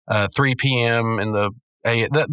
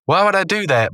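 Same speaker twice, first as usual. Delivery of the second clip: higher, indignant retort; acted-out cartoon boss questioning an order; lightly voiced Benson; 7 semitones higher than usual. Retelling the boss's reply to a demand, lightly indignant. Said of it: "and Vincent's like".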